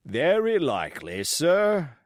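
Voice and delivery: unconvinced reply; dry doubt. Acted.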